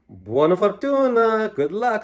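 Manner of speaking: put-on old woman calling good luck after him. A narrator's reading. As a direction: call it after him down the hill. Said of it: "Strega Nona called after him".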